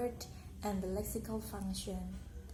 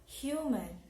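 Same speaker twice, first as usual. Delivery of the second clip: "Human" with HU raised and strong; stress on first syllable; 3 semitones higher than usual. Shown as a demonstration. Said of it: "on the first syllable".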